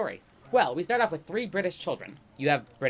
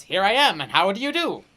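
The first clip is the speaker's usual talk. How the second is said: put-on British accent; 4 semitones higher, 6 dB louder than usual. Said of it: "Uncle Dovey walks up and goes".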